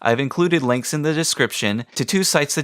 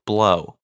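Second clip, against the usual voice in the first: lip trill; 3 semitones lower than usual. Shown as a demonstration. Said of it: "purse your lips like do the duck lips and then".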